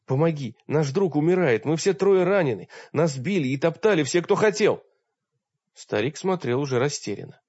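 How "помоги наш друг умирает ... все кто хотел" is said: desperate plea. Acted. Begging the wizard for help.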